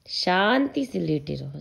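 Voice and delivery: slow, gentle coaxing; soothing. Real, not acted. Soothing toddler. (बच्चे को धीरे से शांत करते हुए)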